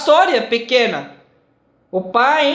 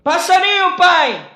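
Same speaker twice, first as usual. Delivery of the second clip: rising voice; 6 semitones higher than usual. Retold or imitated. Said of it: "Começou de aumentar o voz".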